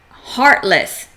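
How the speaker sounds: ordinary delivery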